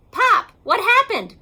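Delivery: put-on high, loud child's cry; child crying out to his father. A narrator's reading. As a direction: call out to Pop in alarm. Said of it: "cried Junior".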